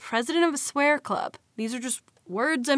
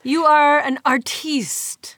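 slow breathy whisper, mock awe; whispered tease; 3 semitones higher, 4 dB louder, slower than usual. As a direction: whisper it like praising a great artist. Teasing whispered compliment.

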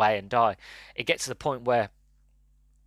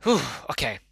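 composing breath out; 2 semitones higher than usual. Real, not acted. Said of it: "I'm getting emotional again".

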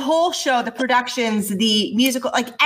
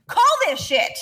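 mock angry demand; 5 semitones higher than usual. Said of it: "be like".

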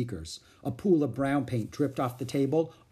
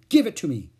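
demanding; 5 semitones higher, 8 dB louder than usual. A narrator's reading. Boy demands lollipop.

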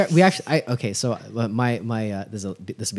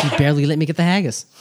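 laughing, quicker and louder; 4 semitones higher, 6 dB louder, faster than usual. Shown as a demonstration. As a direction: laugh it out in disbelief. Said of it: "repeats the line".

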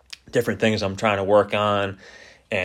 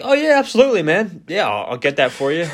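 high-pitched, eager people-pleasing; mock-confident yes that starts very high and settles; over-eager agreement; 8 semitones higher than usual. New bartender covering for not knowing the drink, over-eager. Acted eager reply, secretly clueless.

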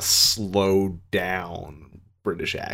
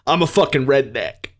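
mock indignant; 4 semitones higher, 4 dB louder than usual. Mock indignant declaration of redneck identity.

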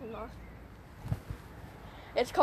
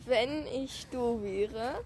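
drawn-out game prompt; much slower than usual. Pretend. Dramatic formula before giving dare.

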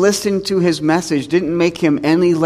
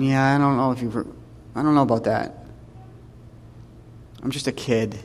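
put-on reluctant kid; 3 semitones lower, 8 dB quieter than usual. Voices reluctant Jeremiah making excuses to God.

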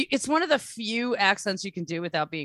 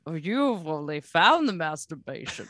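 Bane line quoted; 3 semitones lower, 4 dB louder than usual. Retold or imitated. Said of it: "trying to figure out the line".

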